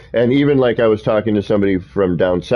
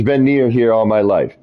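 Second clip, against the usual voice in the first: put-on Southern accent; 2 semitones higher than usual. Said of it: "Southern accent".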